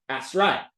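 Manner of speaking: low "'at's right", Southern style; Southern dropped th. Retold or imitated. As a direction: drop the th from "That's". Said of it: "when I was in the South".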